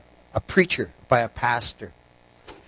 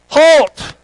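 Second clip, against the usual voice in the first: high, sharp acted yell; loud, urgent one-word command; alarmed shout; 12 semitones higher, 8 dB louder than usual. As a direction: shout to halt a runaway animal. Rider shouts at runaway donkey.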